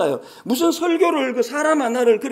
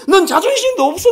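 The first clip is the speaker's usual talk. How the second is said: high, loud mock scolding with a laugh; scolding mother; 9 semitones higher, 6 dB louder than usual. Preacher replaying the sister's rebuke, high and loud.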